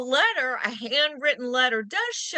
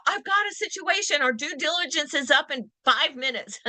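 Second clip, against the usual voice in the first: frantic. Retold or imitated. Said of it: "this frantic, urgent email".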